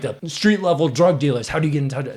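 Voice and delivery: mild interrogator's yell, pitched slightly up; mock yelling. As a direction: lightly act out a heated demand. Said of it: "yelling at him".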